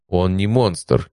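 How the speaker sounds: slow and calm objection. Acted. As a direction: calmly set him straight. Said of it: "возразил я спокойно".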